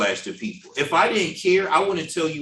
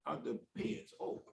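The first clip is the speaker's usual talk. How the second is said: loving heads-up; 5 dB quieter than usual. Retold or imitated. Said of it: "But loving would be".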